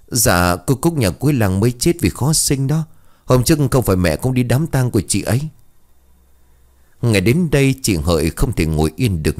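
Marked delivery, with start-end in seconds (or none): 0.1-5.4 put-on higher, quick child's voice; a kid blurting it out fast. Child Khoai tells mother about dead Cúc, quick high child voice.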